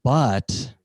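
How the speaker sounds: hemming and hawing with long drawn-out hums; picky diner stretching out each request; entitled customer. Acted. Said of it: "how entitled people used to be".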